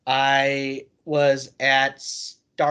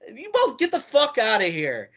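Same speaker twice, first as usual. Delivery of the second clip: much higher hammed-up drunk dismissal; drunk Joey Janela; 12 semitones higher than usual. Janela drunkenly throws the storyteller out, high mock voice. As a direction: shoo them off in a drunk mock voice. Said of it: "He's like".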